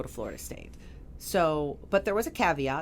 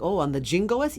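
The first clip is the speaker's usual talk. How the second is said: put-on Hispanic accent; 4 dB louder than usual. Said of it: "she calls it the yingoist".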